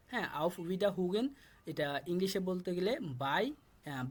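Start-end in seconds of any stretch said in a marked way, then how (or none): 0.4-1.3 auf Wiederhugen stretched out slowly, syllable by syllable; teacher slowly sounding out auf Wiederhugen; slow model pronunciation. Shown as a demonstration. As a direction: say auf Wiederhugen slowly so learners can copy. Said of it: "শুধুমাত্র আমি উচ্চারণ করে দিচ্ছি".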